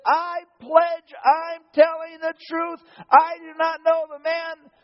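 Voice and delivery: loud, slow, emphatic oath; sworn denial. Acted. Peter swearing to the bystanders, loud and slow.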